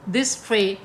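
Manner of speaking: "This tray" as two measured beats; word deliberately cut short. Shown as a demonstration. Teacher showing the third foot, "This tray" syllable by syllable. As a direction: stop dead after "tray", word left unfinished. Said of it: "इसको पूरा नहीं पढ़ना".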